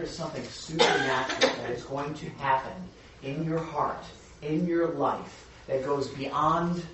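slow, emphatic preaching. Acted. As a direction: stretch each phrase out slowly. Preacher drives home the point.

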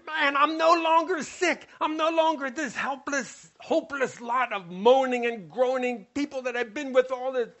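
high, eager voice of a man just healed; joyful healed man. Acted. Healed man rejoicing on the road, high and eager. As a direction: let him burst with relief.

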